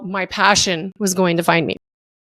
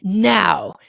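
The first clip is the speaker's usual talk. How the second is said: much lower and slow, a grave heavenly pronouncement; God's voice; 4 semitones lower, slower than usual. Retold or imitated. God telling Mitch his purpose, low and slow. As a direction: speak as God giving a life purpose. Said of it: "what's up, God?".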